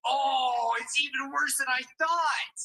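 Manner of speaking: loud, slow shocked outburst. Real, not acted. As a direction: gasp it out in horror. Reacting in shock.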